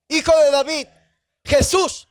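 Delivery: loud, high call of a blind beggar; crying out. Acted. Blind man calls out to Jesus in a loud high cry. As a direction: call out to be heard over the crowd. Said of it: "empieza a decir unas palabras".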